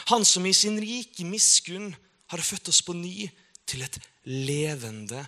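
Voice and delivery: slow, solemn Bible reading with long pauses; a preacher reading a psalm to the congregation, slow and solemn; solemn scripture reading. Acted. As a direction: read the psalm slowly and reverently, letting each line land. Reads Peter's words aloud.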